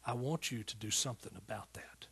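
hushed, whispered divine command; God speaking softly within. Retold or imitated. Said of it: "just loud in my spirit, he said".

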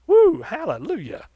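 high, loud joyful whoop; joyful shout. Real, not acted. Preacher rejoicing over the verse to the church, loud whoop. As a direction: let the praise burst out.

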